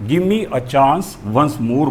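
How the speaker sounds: very slow, "Give me" run together as gimme; blended give me. Shown as a demonstration. Teacher showing students the linked phrase, slow gimme. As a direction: teach it slowly with "Give me" fused into one word. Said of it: "give me को मिलाया तो इसे हो गया give me".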